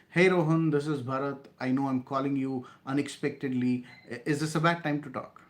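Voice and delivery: bright, friendly greeting with a lifted hey; friendly professional opener. Shown as a demonstration. Salesman opening a cold call to Rohan, friendly. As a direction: greet him by name, easy and confident. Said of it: "try using this".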